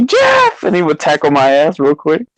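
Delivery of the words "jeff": retold shout. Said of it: "he would say".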